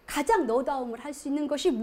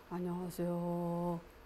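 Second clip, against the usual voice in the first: put-on very low, very soft, hushed old-gentleman voice; 7 semitones lower, 11 dB quieter than usual. Retelling how a student greeted when told to say hello: deep low voice. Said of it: "중저음으로 안녕하세요 이렇게 되는 거예요".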